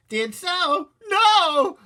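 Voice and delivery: high squeaky mother shouting no. A narrator's reading. Mother shouting at her toddler. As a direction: cry out in shock. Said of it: "Mom shouted".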